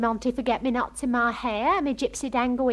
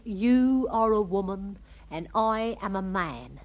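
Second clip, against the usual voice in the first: slow, lightly voiced wooer; imitating a smitten dance partner; mock-romantic suitor; 4 semitones lower, slower than usual. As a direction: draw out the soppy line slowly. Retold suitor's slow wooing at dance.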